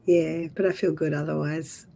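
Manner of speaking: rough hoarse voice from the flu. Real, not acted. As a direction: voice mostly gone, hoarse. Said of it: "just the voice is gone".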